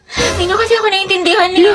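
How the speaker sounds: mock tearful pleading; fake crying. Student whining to groupmates, fake teary. Whiny excuse after being scolded.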